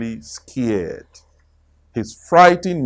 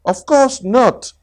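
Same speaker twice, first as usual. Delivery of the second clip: Tigger voice; 11 semitones higher than usual. Acted. Tigger breezy.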